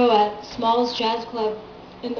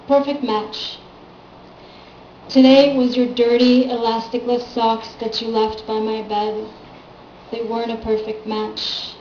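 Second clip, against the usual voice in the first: poem reading; 5 dB louder than usual. Acted. Poet reads a short love poem to listeners, measured recital. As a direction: recite it in measured, falling phrases.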